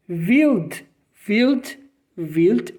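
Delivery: Wild with V start and rolled L, vilt; scene: teacher repeats Wild, showing the L; German Wild. Shown as a demonstration. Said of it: "Olha o L como enrola".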